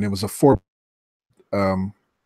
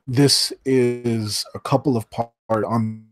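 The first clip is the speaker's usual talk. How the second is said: choppy, dropping internet audio; words cutting out on a bad line; bad connection. Real, not acted. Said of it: "you sound a little choppy".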